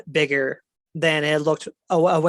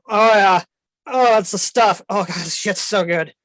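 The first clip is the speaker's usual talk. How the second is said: dragon relishing food; 3 semitones higher, 4 dB louder than usual. Acted. Dragon gorging in barrel.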